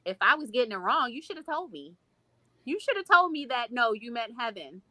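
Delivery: rising up high as the hurt breaks through; retold anger at God. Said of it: "that was part of my anger with God".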